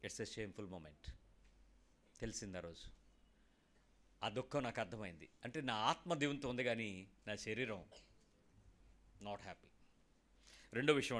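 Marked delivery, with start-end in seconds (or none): 0.1-9.7 hushed confession. Real, not acted. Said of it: "confessing shame".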